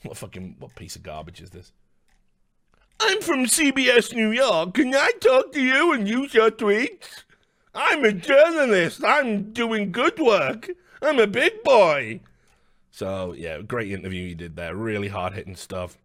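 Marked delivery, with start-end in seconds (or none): 3.0-12.2 high, eager, put-on journalist voice; mocking a cheesy journalist in a higher voice. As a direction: play a keen, cringey reporter asking for tweets. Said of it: "saw a tweet and went".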